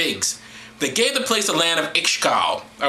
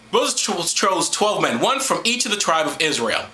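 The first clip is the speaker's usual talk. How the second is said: scripture reading; 3 semitones higher than usual. Acted. Reads scripture aloud to listeners.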